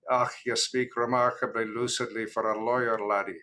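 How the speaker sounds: Scottish brogue impression; Jack Webster. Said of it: "would say in his Scottish brogue".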